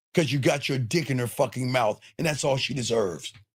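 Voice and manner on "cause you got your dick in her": usual speaking voice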